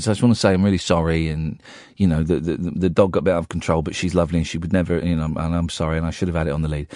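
low, quick, mumbled-through apology; retold apology. Dog's owner apologising at the door, retold low and quick. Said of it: "he'd come to apologise".

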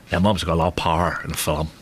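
very low put-on presenter voice; deep celebrity impression; Eamon Holmes. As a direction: drop the pitch for a solemn warning. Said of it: "Do it in your voice".

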